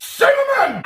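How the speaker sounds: high squealed announcement of cinnamon. Acted. Cook squealing the next spice to her audience, way up high. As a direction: shriek the word like a delighted cook. Announcing ingredient, sing-song cry.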